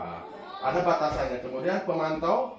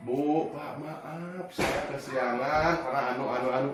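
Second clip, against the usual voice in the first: a mild, understated pleading tone; 2 semitones lower, 3 dB quieter, slower than usual. Shown as a demonstration. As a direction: beg softly like a guilty pupil. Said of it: "nada suaranya memelas". (nada sedikit memelas)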